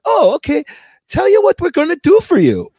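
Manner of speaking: high, sugary service-desk voice; high bright clerk putting on a helpful act; customer service rep voice. Retold or imitated. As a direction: play the chirpy sales clerk offering a deal. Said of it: "She comes back".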